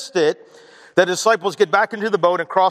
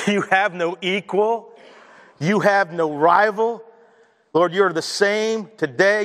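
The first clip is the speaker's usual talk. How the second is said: prayer. Acted. Pastor praying before his sermon, earnest and unhurried. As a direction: pray over the church, unhurried.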